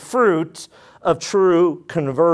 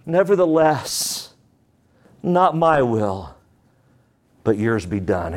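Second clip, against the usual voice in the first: slow, humble, lowered voice; humble prayer; 5 semitones lower, slower than usual. Acted. Jesus praying to the Father, slow and humble. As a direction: surrender the will gently. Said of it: "From a humble posture of the heart".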